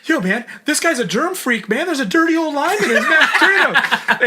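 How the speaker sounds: hammed-up alarm, high and loud; full-on actor mode. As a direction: make a big theatrical complaint. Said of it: "full-on actor mode".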